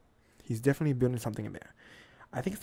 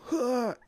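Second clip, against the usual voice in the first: high, loud huffed breath; effort gasp; 10 semitones higher, 6 dB louder than usual. Acted. Acting out tossing someone across the room, effort gasp. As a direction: huff out hard for a throw.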